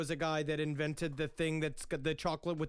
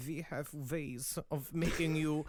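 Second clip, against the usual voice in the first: cool foreign spy menace; 3 semitones lower, slower than usual. Retold or imitated. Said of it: "He's like".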